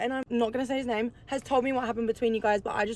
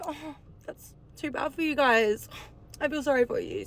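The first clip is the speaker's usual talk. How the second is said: sarcastic; 4 semitones higher than usual. Retold or imitated. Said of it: "I had sarcasm to this bitch".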